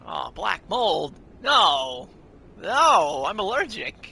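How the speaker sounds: hammed-up panicked shouting; mock panic. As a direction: yell it in fake horror.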